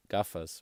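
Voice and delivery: GAFAS with a hard English G; English-style G. Shown as a demonstration. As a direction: hit a plain hard g in gafas. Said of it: "like a normal sort of English G".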